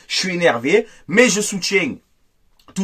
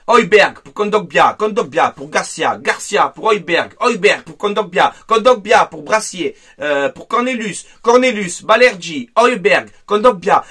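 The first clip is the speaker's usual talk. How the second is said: mocking pass commentary. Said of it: "le jeu de passe-passe".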